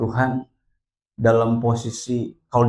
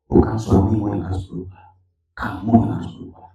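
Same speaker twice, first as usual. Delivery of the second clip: voice of God; 2 semitones lower, 4 dB louder than usual. Retold or imitated. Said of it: "Tuhan bilang begini". (suara Tuhan, rendah dan tenang)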